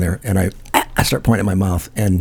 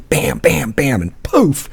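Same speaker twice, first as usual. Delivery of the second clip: punchy, raised sound effects; higher, punched-out impact words; imitated blows; 5 semitones higher, much slower than usual. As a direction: act out each hit landing. Acting out blows on his back.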